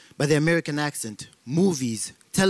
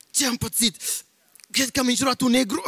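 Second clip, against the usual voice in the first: stricken victim; 6 semitones higher than usual. Acted. Cursed Romanian stricken while walking.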